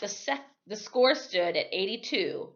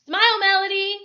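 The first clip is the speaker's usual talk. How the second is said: higher and louder call; 14 semitones higher, 10 dB louder than usual. Acted. Photographer calls out to Melody for a picture, loud. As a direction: call out over the crowd to her. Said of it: "a baseball cap called".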